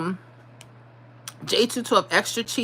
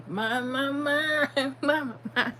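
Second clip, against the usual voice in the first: dreamy my my; 6 semitones higher, 4 dB quieter, slower than usual. Real, not acted. Savoring pizza memory.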